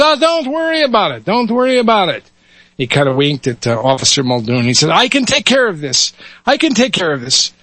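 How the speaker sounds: put-on high, reassuring Yiddish accent; Yiddish rabbi. Rabbi reassures the lad with a wink, Yiddish accent. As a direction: brush it off like a sly rabbi. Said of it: "switch between dialects here".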